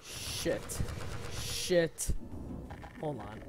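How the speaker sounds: breathless whispered shit; hiding from a monster; whispered curse. Real, not acted. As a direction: hiss it under your breath. Hiding from enemy in game.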